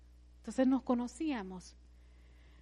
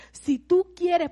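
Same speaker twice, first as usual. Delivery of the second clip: serious pastor; 7 semitones higher, 8 dB louder, much slower than usual. Retold or imitated. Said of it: "él me dice seriamente".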